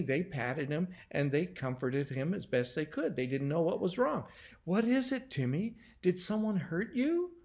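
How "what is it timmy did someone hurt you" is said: higher-pitched, gentle questioning; gentle concern. A narrator's reading. Susan calming Timmy down enough to talk, gently. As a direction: ask gently, voice lifting in concern. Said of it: "Susan gently asked him".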